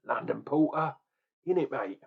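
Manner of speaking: lightly put-on Cockney accent; a hint of Cockney geezer, tongue in cheek; mock Cockney. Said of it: "am I gonna be talking like this".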